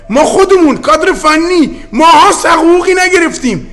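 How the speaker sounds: rising anger, voice pushed up high; heated protest. Real, not acted. Coach protesting to officials about unpaid wages, high and indignant. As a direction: pitch climbing high in indignant complaint.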